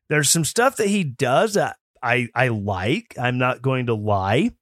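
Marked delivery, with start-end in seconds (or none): none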